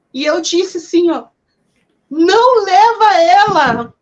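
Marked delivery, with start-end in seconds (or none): 2.1-3.9 put-on desperate, pleading, high raised shout. Retelling yelling at a man who kept walking away, re-enacting a desperate shout. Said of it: "E eu comecei a gritar".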